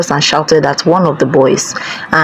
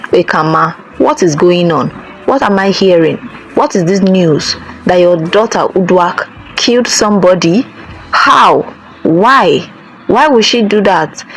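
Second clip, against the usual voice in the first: king's angry questioning; 3 semitones higher than usual. Acted. King confronting Ikama about her daughter, raised and demanding. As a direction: demand answers from the accused mother. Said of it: "the king shouted at her".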